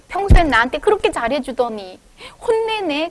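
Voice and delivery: mock hurt child's complaint, rising high at the end; hammed-up sulky kid. A sulky child hurt that a loving dad scolds, mock hurt. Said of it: "서운해져갖고 우는 애도 있어요".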